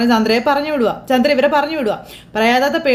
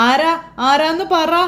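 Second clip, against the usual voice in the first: slow, scared demand; 4 semitones higher, much slower than usual. Acted. Frightened mother demands who's there.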